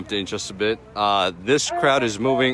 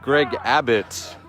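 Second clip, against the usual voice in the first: anchor voice. Pretend. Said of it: "What if I did an anchor voice?".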